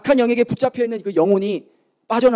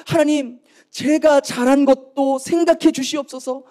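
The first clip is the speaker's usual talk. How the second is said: imitated tearful plea, pitched higher; wehklagendes Gebet nachahmend; 5 semitones higher than usual. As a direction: plead to God as if lamenting, mildly. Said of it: "통곡을 하면서".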